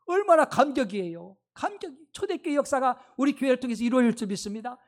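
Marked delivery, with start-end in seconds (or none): 0.1-2.0 moved excitement. Acted. Rejoicing over new believers.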